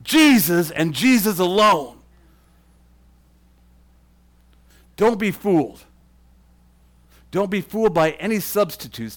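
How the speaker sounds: loud, rising fervent preaching; worked up. Real, not acted. Preacher to parents, real worked-up fervour. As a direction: pound each line harder and harder. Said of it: "I'm getting a little worked up".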